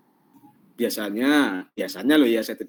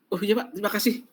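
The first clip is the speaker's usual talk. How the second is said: polite thanks; 10 semitones higher than usual. Shown as a demonstration. Acted polite decline.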